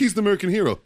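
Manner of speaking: mock the hero worship; mimicking everyone, sarcastic hero praise. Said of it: "Everybody's like".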